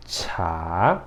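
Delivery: "chá" on a rising tone, aspirated ch; rising Mandarin tone. Shown as a demonstration. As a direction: let "chá" glide upward. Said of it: "Então, pra cima".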